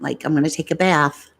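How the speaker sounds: light New York accent sample. Shown as a demonstration. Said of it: "I love a New York accent".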